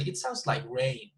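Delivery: main stress lands on "rain" as new information. Shown as a demonstration. Teacher presents new information, stressing "rain" with a fall. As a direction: make "rain" the peak, then fall. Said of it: "put more emphasis on this word".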